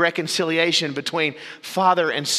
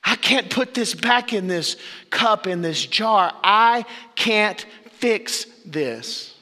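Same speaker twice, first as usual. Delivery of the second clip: slow, halting, helpless; a woman staring at spilled water, lost; despairing; 3 semitones higher, slower than usual. Pretend. Preacher voicing the woman who broke her water jar, despairing. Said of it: "You say".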